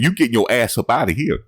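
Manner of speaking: high, amused mock coach voice; laughing mock quote; imitating a coach. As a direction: mimic the coach's line while cracking up. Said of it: "He said".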